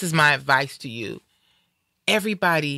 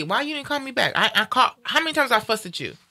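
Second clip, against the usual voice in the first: half-serious nagging over missed calls; mock fussing; 4 semitones higher than usual. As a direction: playfully fuss at a friend for not calling back. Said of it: "I get on Lee".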